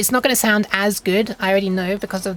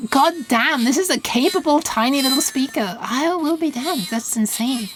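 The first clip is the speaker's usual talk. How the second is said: impressed; 5 semitones higher than usual. Real, not acted. Impressed by speaker.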